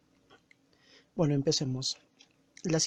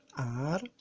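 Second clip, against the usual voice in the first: "arbolito" broken into ar, bo, li, to; syllable by syllable; 4 dB quieter than usual. Shown as a demonstration. Teacher counting sound beats in arbolito, syllable by syllable.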